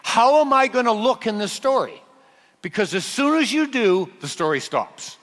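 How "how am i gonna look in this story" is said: higher-pitched, self-conscious worry; lightly voiced anxious second thoughts; mild mock panic. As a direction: act out a touch of sudden panic. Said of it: "Don't suddenly panic and think about yourself".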